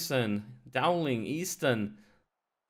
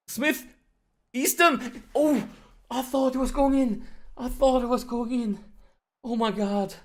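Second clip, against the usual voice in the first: high, loud cries at a near miss; agonised excitement; 11 semitones higher, 6 dB louder than usual. Real, not acted. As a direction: cry out in disbelief, voice pitched right up.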